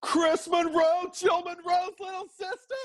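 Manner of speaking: high, slow, gasping delight; delighted realization. Retold or imitated. Angels realizing the newcomer is family, high and delighted. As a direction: stretch the name out in happy disbelief. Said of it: "And like".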